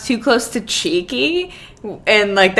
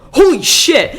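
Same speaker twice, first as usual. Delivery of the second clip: higher, louder laughing exclamation; excited outburst; 8 semitones higher, 6 dB louder, slower than usual. Retold or imitated. Manager reading the pole news mid-meeting, a laughing retold outburst. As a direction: retell the manager's sudden shock. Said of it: "he just goes".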